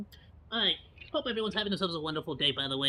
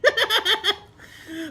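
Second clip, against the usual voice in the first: laughing; 12 semitones higher, 8 dB louder than usual. Real, not acted. Laughs at finding it.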